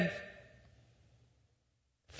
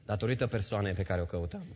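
quicker; 4 semitones lower, faster than usual. Shown as a demonstration. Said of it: "O pierdem datorită". (repede și încet)

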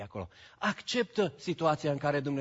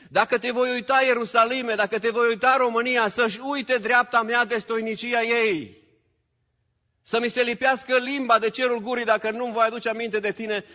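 loud, raised preaching voice; preaching at full force; 10 semitones higher, 10 dB louder than usual. Acted. Pastor urging his church, preaching loud. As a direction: drive it home to the congregation.

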